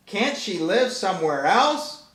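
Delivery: put-on whiny cat kid. Cat kid hearing grandma moves in, mild high whine. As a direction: sulk it out like a kid. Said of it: "says the cat".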